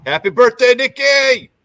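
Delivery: loud, high, happy shout to the dog; excited birthday shout. Real, not acted. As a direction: cheer it out for the dog's birthday. Greeting the friend's dog on birthday.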